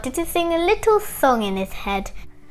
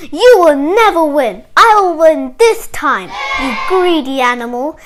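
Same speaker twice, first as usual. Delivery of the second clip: taunt; 7 dB louder than usual. Acted. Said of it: "And he said".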